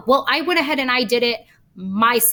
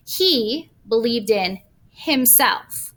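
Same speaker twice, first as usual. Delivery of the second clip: slow example read; much slower than usual. Shown as a demonstration. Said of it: "That's a reflexive pronoun".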